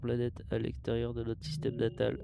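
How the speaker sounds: steady mechanical log voice; robot voice. Acted. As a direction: read it like a ship's computer. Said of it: "je fais une voix de robot".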